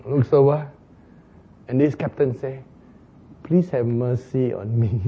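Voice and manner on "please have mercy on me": soft, low begging; humble plea. Acted. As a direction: beg for mercy on your knees. Captain begs on knees.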